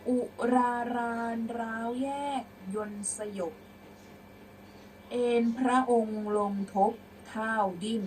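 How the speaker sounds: deliberate, projected verse; prose-style recitation. Shown as a demonstration. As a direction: read out phrase by phrase for pupils. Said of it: "เดี๋ยวครูจะอ่านเป็นร้อยแก้ว".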